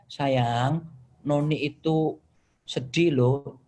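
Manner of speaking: slightly drawn-out, mild plaintive tone; imitating wife's sadness. Wife using I statement on husband, mild sad appeal. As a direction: lightly play a wife gently confessing she feels sad. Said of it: "kalau dia ngomong".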